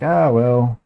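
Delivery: high, mocking sing-song voice well above his own; mocking the other trader. Mimicking the chatty guy on the live call, high and mocking. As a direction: ham up a smug guy who won't stop talking. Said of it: "he's like".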